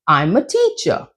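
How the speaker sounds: TEACHER set down as information; falling statement. Shown as a demonstration. Teacher giving information to learners, falling intonation. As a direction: say "teacher" as a plain confident statement. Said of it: "That's falling intonation".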